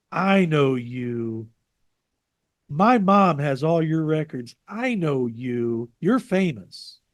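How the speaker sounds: slow, drawn-out starstruck woman; lightly voiced fan insisting; mild imitation of an eager fan. Fan woman quoted in story.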